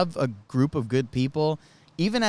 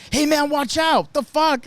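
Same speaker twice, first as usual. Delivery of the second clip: startled annoyed guy; 13 semitones higher, 5 dB louder, slower than usual. Retold or imitated. Stranger reacts to being spooked.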